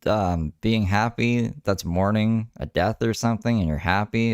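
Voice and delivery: drawn-out opening groan, then a half-hearted mock rant; mock outburst. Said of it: "he goes off".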